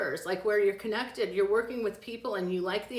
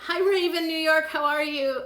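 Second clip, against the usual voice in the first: bright greeting; 6 semitones higher, 6 dB louder than usual. Real, not acted.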